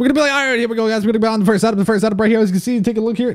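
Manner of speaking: rattled off at top speed, rapid-fire patter. A host, promising to talk as fast as possible after long episodes, starts the setup: very fast talking. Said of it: "not that fast".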